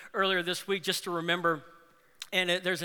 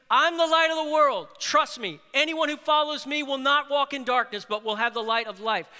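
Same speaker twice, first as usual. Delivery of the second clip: much higher and louder, declaring; bold proclamation; 6 semitones higher, 6 dB louder than usual. Acted. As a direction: proclaim it to the crowd. Preacher voices Jesus's proclamation.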